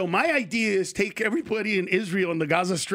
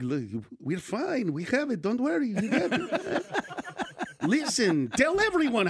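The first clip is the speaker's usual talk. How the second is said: put-on slow, relaxed old deli man accent; lightly voiced Jewish shopkeeper; 2 semitones higher, 3 dB quieter than usual. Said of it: "I just did a Jewish guy".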